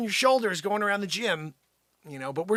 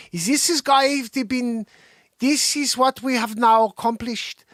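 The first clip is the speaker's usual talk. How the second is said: put-on Copenhagen accent; 5 semitones higher, 4 dB louder, slower than usual. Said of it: "we gotta do a Copenhagen accent".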